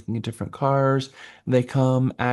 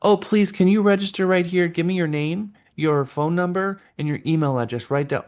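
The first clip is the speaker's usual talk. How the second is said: higher, sugary pushy request; pushy agent; 5 semitones higher than usual. Retold or imitated. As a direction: overeager agent at the door. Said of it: "real estate agents take that same approach".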